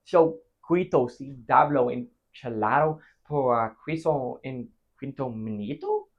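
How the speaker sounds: slow, halting mock Spanish. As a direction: imitate a young man asking something in Spanish. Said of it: "says in Spanish".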